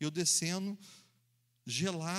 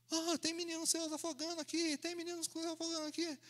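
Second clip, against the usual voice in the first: shouting across the river; 12 semitones higher than usual. Retold or imitated. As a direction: call out that a boy is drowning. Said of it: "começou a gritar".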